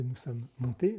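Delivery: slow down and lean on MONTÉS; MONTÉS given deliberate weight as the key word; stress on MONTÉS. Shown as a demonstration. Singer explains which word matters, stress on MONTÉS. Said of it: "montés est important".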